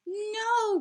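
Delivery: high, loud no; sharp high cry of refusal; Musa crying no. Acted. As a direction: shout it to stop them. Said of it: "cried Musa".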